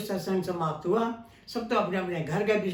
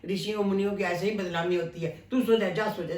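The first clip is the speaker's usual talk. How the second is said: sweetly cutting, hurt pride underneath; sarcastic taunt; 2 semitones higher than usual. Acted. Vishwamitra taunting Ram to go back to sleep, sarcastic.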